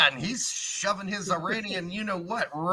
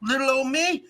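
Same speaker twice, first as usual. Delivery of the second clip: higher, hammed-up Southern coach; mock Southern accent; 5 semitones higher than usual. Podcaster plays the coach dodging politics, mock Southern accent. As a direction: plead ignorance in a put-on Southern accent. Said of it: "Sound like a plantation Cartman".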